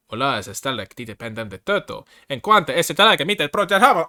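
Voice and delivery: builds to a loud, high finish; mock Portuguese reading. Shown as a demonstration. Streamer rereads the Portuguese flavor text in a hammed-up accent. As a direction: reread it with a rising hammed-up flourish. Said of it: "It's not Spanish".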